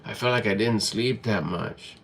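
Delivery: softly acted tired complaint; weary morning grumble. Someone just waking up grumbles to themself, mock-weary. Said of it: "From the moment you wake up".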